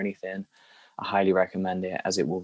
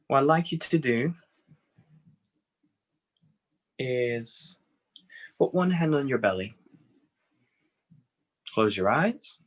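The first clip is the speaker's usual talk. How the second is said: unhurried phrases with long pauses; guided meditation; 2 semitones higher than usual. Acted. Teacher settling a group into breathing on their backs, guided meditation. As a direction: ease them gently into breathing.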